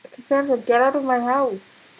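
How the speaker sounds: loud, exasperated command; ordering out. Real, not acted. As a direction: throw the intruder out. Ordering intruding Sim out.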